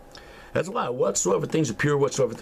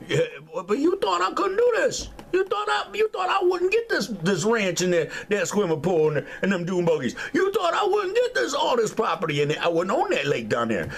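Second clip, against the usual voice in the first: taunting shout; 8 semitones higher than usual. Acted. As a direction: shout it in their faces. Taunting doubters over his wealth.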